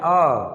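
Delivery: आ said with the mouth wide open; a long, fully open आ from the throat; open vowel demo. Shown as a demonstration. Teacher demonstrates the wide-open vowel आ to students. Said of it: "जैसे आ बोलते हैं".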